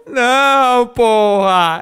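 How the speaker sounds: high, loud frightened yells; scared screaming. Real, not acted. Player scared by the game, high loud panicked screams. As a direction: shriek and curse after a fright.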